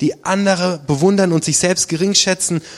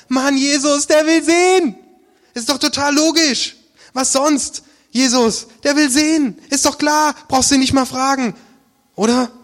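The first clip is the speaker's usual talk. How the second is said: much higher, exasperated ranting; excited mock disbelief; 9 semitones higher than usual. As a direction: throw up your hands at the obvious. Spottet ungeduldig über die Frage. (aufgeregt spöttisch, viel höher und lauter)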